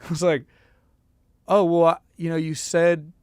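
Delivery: curt, impatient questioning; blunt impatient attitude. Retold or imitated. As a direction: bluntly demand what he wants. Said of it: "do you think he really said with that attitude".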